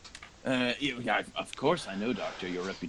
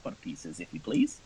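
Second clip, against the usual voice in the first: barmaid asking payment; 2 semitones higher than usual. Acted. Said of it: "and she says".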